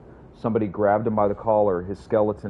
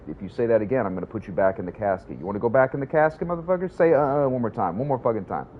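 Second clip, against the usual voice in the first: mock threat building; 3 semitones higher than usual. Acted captors threatening Kubrick.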